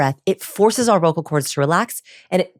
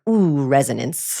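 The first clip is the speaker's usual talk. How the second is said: slow savoring ooh; 4 semitones lower, slower than usual. Retold or imitated. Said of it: "finding that part of you that's like".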